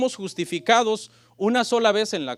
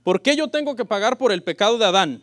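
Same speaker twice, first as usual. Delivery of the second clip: loud question; 2 semitones higher, 6 dB louder than usual. Shown as a demonstration. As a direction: read out boldly, louder. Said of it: "me han hecho".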